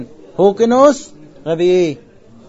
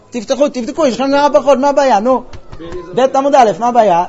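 impatient urging; 4 semitones higher than usual. Real, not acted. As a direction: come on, what's the problem, open it. Teacher urges class to open books.

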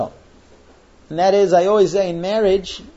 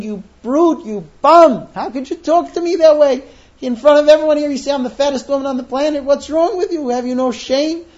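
high hammed-up wailing, louder in spots; mock wailing wife; 8 semitones higher, 3 dB louder than usual. Wife wailing at husband over dress remark, hammed-up. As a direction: play the offended wife wailing over the top. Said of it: "And she goes wailing".

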